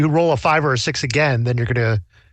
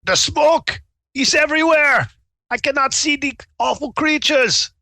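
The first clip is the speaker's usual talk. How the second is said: high, hammed-up German accent; 11 semitones higher than usual. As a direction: play it in a thick German accent. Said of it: "My German accent is going away".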